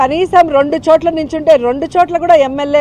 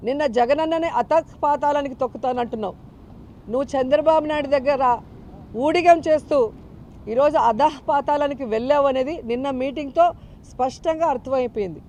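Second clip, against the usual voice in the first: the same words replayed much softer, like a fading echo; 8 dB quieter than usual. Real, not acted. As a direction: drop it right back as an edited echo. (మెల్లగా ప్రతిధ్వనిలా)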